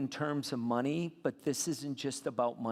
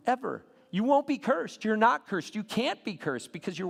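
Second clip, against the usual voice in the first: emphatic preaching; 8 semitones higher, 4 dB louder than usual. Real, not acted. Preacher hammering a point.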